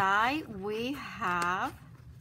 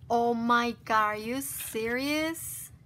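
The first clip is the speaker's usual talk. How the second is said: amazed outburst; 7 dB louder than usual. Real, not acted. Opens cupcake gift, amazed.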